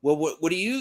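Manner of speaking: usual speaking voice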